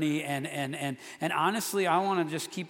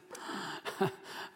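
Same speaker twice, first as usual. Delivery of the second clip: soft breathy nervous laugh; embarrassed little laugh; awkward laugh; 9 dB quieter than usual. Real, not acted. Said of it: "that's my awkward laugh".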